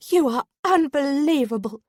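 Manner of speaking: high, loud furious shout. A narrator's reading. Harriet to the man who trapped her, furious shout. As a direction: throw it at him in fury. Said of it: "she shouted".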